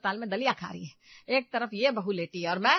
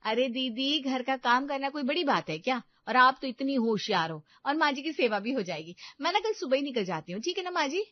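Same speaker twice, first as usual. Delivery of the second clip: sly daughter-in-law; 5 semitones higher, 4 dB louder than usual. Acted. Meenu voice.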